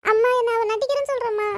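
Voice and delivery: tearful whining protest; crying. Acted. Child complains to mother of being doubted, crying. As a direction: whine it out on a held note.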